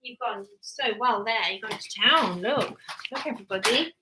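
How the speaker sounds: a touch of praising mum voice. Real, not acted. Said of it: "I'm talking to you in my mum voice".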